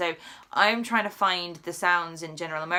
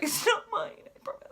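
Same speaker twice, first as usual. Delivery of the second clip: mock innocent denial; 12 semitones higher than usual. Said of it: "And you're like".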